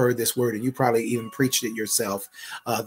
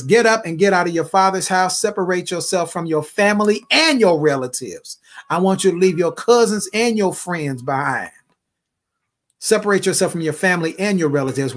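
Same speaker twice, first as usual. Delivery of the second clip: voicing God's command; 6 semitones higher, 4 dB louder than usual. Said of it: "He says".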